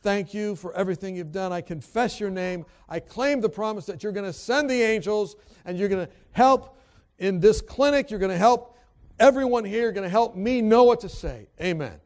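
heartfelt spoken prayer, lifting in pitch; earnest prayer. Retold or imitated. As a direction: pray aloud with building intensity. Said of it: "So I pray".

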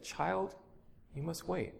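soft, gentle voice of the master. A narrator's reading. The Lord answering his pleading child, soft and gentle. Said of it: "the master so gently said".

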